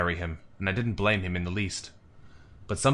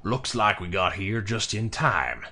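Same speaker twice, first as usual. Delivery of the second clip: menacing American trader; 2 semitones lower than usual. Acted. American trader threatening the attackers.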